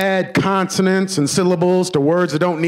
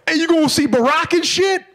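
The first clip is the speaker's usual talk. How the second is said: much higher mock eager question; curious friend; 12 semitones higher than usual. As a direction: ask it like an excited cousin. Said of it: "first thing black folks are gonna ask you".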